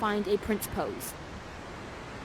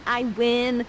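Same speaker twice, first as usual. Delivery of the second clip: louder, victorious sorceress; triumphant gloat; 2 semitones higher, 7 dB louder than usual. Acted. Prospera after winning the sword fight, loud gloating. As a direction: crow over the beaten prince.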